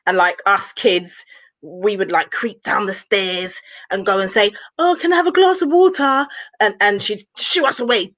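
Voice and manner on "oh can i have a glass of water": put-on higher-pitched pleading kid; lightly voiced little kid asking a favour; child asking for water. Kids creep down to ask.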